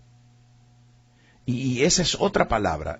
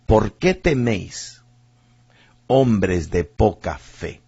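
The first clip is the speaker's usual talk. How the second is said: calm rebuke; much slower than usual. Retold or imitated. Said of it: "mire lo que le dice Jesús".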